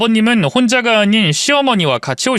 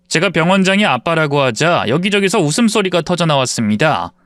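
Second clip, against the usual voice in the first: plain reading voice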